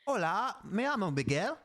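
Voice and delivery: bad British accent on Spanish, questioning lift; tentative Spanish with a British twang. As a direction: try Spanish like a Brit. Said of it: "say it with a British accent".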